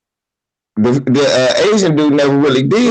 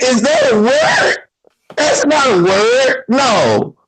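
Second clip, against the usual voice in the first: incredulous; 7 semitones higher than usual. Retold or imitated. Incredulous questioning coworker.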